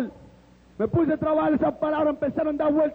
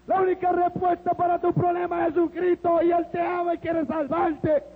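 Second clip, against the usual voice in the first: calls out that Jesus saves; preaching shout; 3 semitones higher than usual. Retold or imitated. Christian preaching at Joey.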